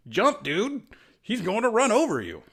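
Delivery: high, loud frantic yell; panicked shout. A narrator's reading. Ganke yells at Miles to jump clear, panicked shout. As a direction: scream the warning as the Rhino charges. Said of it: "Ganke shouted at Miles".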